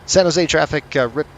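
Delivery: formal radio call to San Jose traffic. Shown as a demonstration. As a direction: announce it to traffic. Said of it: "excuse me".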